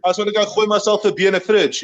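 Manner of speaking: put-on broad South African accent. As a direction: imitate a casual South African bloke. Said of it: "where South Africans are like".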